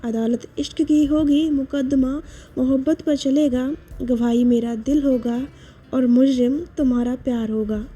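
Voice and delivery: quiet, intimate poem reading; hushed heartfelt couplet; soft shayari recital. Acted. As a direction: read it softly like a confession.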